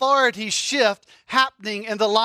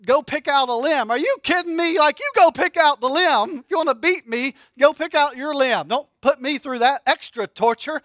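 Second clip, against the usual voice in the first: incredulous protest; 4 semitones higher, 3 dB louder than usual. Retold or imitated. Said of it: "So it's like".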